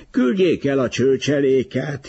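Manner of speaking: high-pitched narrated wail. A narrator's reading. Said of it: "jajdult fel a férfi". (feljajduló, magas hang)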